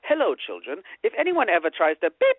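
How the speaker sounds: lightly voiced prim droid; mock lesson to the kids; C-3PO impression. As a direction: put on a fussy robot teaching children. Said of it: "like C three P O giving you the lesson".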